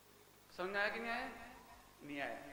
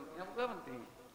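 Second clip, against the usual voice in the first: ordinary talk, nothing marked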